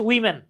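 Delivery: উইমেন with a short "wi" opening, not "wo"; pronunciation of women. Shown as a demonstration. Teacher showing students how women sounds, pronunciation demo. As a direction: say উইমেন as "wi-men". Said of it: "উচ্চারণ হচ্ছে".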